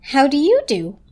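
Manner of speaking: warm reply. A narrator's reading. The old toaster greeting the new toaster, warm and friendly. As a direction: greet warmly. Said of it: "the toaster replied warmly".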